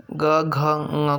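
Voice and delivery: ग, घ, ङ spoken very slowly, one by one; slow consonant demo. Shown as a demonstration. Teacher sounding out the ka-group consonants, very slowly. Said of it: "जैसे क".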